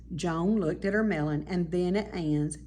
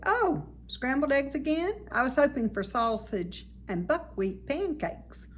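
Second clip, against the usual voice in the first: mildly; 7 semitones higher than usual. Acted. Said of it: "He said mildly".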